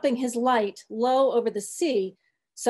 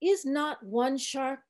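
put-on old cook preaching gently; 3 semitones higher than usual. Old cook coaxing the sharks in a gentler sermon.

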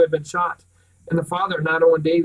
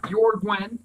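spat out; 4 semitones higher than usual. Acted. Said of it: "Pritchard spat the words".

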